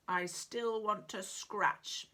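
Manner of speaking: slow grumbling complaint; grumpy mutter. Acted. Sulky dinosaur to the doctor, a grumpy mutter. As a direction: grumble it, slowly. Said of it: "he muttered grumpily".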